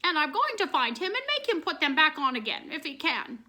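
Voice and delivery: angry. A narrator's reading. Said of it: "angrily stomping her foot".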